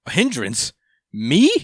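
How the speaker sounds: can't believe he's being called that; offended disbelief. Retold or imitated. Code reacting to Ada calling him a hindrance, indignant.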